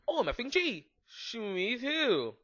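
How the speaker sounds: high, breathy whispered squeal of glee; mock shriek. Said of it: "I shrieked".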